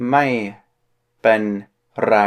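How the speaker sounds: ไม่ เป็น ไร spoken slowly, one syllable at a time; teacher spelling out the phrase slowly. Shown as a demonstration. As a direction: break ไม่เป็นไร into separate syllables. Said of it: "You gotta roll your R there".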